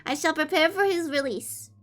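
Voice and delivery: put-on high, sweet anime-girl reading voice; fake cute voice. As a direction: read it cutesy and high-pitched. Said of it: "Okay, I'm done reading like that".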